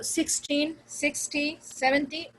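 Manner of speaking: सिक्सटीन, सिक्सटी, सेवेंटी in one same pattern; all stressed alike. Shown as a demonstration. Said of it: "all in the same way".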